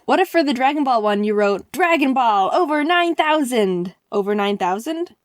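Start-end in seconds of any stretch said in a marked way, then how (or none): 1.7-3.9 drawn-out, rising announcer-style hype; hyped slogan. Retold or imitated. Pitches her slogan with hype. 4.1-5.2 mild, questioning echo; puzzled question. Retold or imitated. Acts his puzzled reply.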